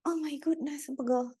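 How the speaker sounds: soft pained sigh while aching; sore muscles. Real, not acted. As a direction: let the ache come through softly. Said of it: "Cika kepegelan". (pegal, suara lesu)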